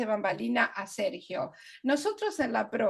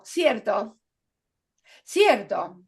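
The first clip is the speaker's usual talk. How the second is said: filler word demo; 5 dB louder, much slower than usual. Shown as a demonstration. Teacher showing students a filler word, louder each time. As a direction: repeat cierto as a filler, each a bit louder. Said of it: "estoy usando muletillas".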